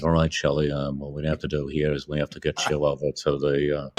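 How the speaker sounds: imitating Kubrick's Bronx talk. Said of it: "He starts talking like this".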